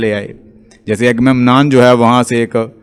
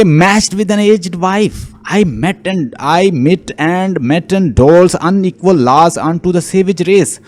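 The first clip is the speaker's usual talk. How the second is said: slow, measured verse recitation; poem reading; 4 semitones higher, much slower than usual. Acted. Lecturer quoting Ulysses' monologue to students, slow poem reading. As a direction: read the line out slowly, higher than usual.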